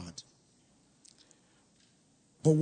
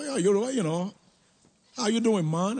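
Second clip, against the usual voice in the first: light mock British accent, pitched a bit higher; imitating British accent; 3 semitones higher than usual. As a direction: put on a Nigerian's fake British lilt as a tease. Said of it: "they all had British accent".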